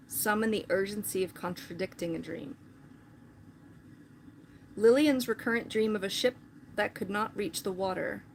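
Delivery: measured, even read-aloud voice; book reading. Acted. Streamer reading a novel's opening to viewers, measured read-aloud. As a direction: read the passage out evenly.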